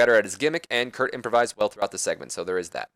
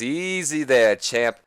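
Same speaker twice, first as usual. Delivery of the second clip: Ric Flair voice; slower than usual. Retold or imitated. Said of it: "And Flair says".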